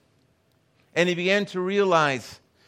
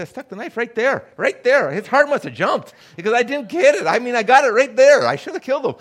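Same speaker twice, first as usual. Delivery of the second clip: higher and much louder, heated boast; agitated retold prisoner; 7 semitones higher, 9 dB louder than usual. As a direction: imitate the prisoner reliving the stabbing. Prisoner retells stabbing, quoted.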